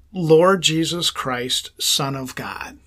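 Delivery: slow, deliberate prayer words; slow breath prayer. Shown as a demonstration. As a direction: pray it slowly on the in-breath. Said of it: "the words that you're gonna say".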